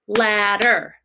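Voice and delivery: LADDER drawn out in two even beats, lad-der; clapped syllables. Shown as a demonstration. Teacher counting syllables for pupils, Ladder said in two beats. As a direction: say Ladder slowly, one beat per syllable. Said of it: "usually we clap, right, when we do syllables".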